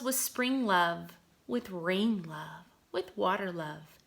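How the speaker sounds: put-on lilting poem reading for young children; poem read aloud. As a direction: read it like a gentle nature poem. Reads poem to class.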